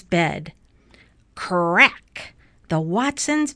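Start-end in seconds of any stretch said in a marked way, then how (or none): 1.3-2.3 cracking noise. A narrator's reading. Floor cracks in the story.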